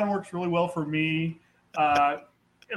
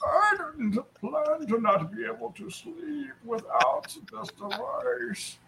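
mock caller; 6 semitones higher, 7 dB quieter, slower than usual.

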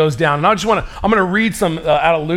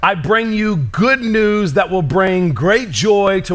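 slow scripture reading; slower than usual. Acted. Reads scripture slowly.

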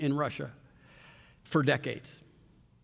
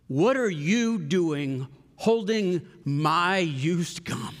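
choked-up retelling; much slower than usual. Retold or imitated. Finally able to talk after bawling.

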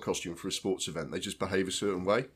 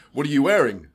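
higher, louder chirpy question; bright interviewer voice; 6 semitones higher, 10 dB louder than usual. Retold or imitated. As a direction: ask it like a peppy red-carpet host. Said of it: "she goes".

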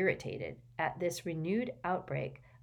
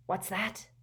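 sharp; 4 semitones higher than usual. Acted. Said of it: "said Gaunt sharply".

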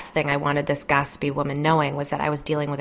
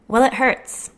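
a higher, louder whiny complaint; whined; 7 semitones higher, 4 dB louder, slower than usual. Acted. Jen complaining about the scratches, whining higher. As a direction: whine it like a wronged child. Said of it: "Jen whined".

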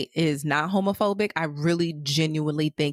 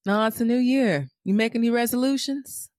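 voicing Fezco; 5 semitones higher than usual. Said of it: "voicing Fezco".

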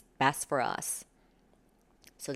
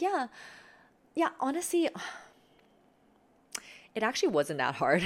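dramatic sigh; 7 semitones higher than usual. Shown as a demonstration. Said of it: "I don't know why I made it sound like that".

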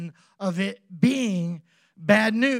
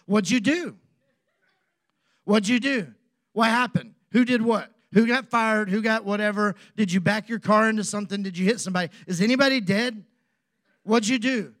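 rapid, louder worried questions; retold panic; 4 dB louder than usual. Husband retelling his frantic questions to his wife on the phone. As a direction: fire off the questions like a nervous husband.

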